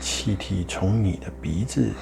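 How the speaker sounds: calm guiding voice with long pauses between phrases; guided meditation. Acted. Meditation guide leading listeners to follow the breath, calm guiding voice. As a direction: lead the listener through each breath, unhurried.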